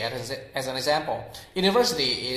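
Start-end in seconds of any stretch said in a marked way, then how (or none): 1.5-2.3 American UNIVERSITY with R in VER; American rhotic UNIVERSITY; American pronunciation. Shown as a demonstration. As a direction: sound the R in UNIVERSITY, American style. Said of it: "is an American accent word".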